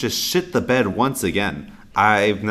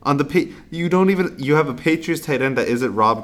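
exasperated disbelief; 8 semitones higher, 6 dB louder than usual. Real, not acted. Incredulous rant at Gabe.

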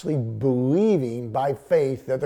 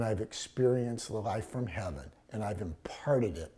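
whispered conviction; 5 semitones lower, 8 dB quieter than usual. Real, not acted. Preacher confiding his hope to the congregation, whispering. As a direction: sink to a whisper mid-thought.

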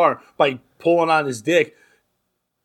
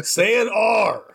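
mock Boston taunt; 8 semitones higher, slower than usual. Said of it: "Fucking shut the fuck up".

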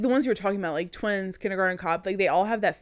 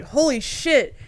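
surprised; 6 semitones higher, 5 dB louder, slower than usual. Retold or imitated. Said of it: "And I was like".

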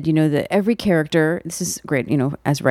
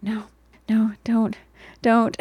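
mild, drawn-out mock plea; pleading; 6 semitones higher, slower than usual. Retelling whispered plea in cinema.

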